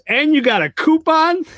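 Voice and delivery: high-pitched squeak of disbelief; wife, thrilled and caught off guard by the coupon; surprised wife. Retold or imitated. Wife's surprised reaction to coupon.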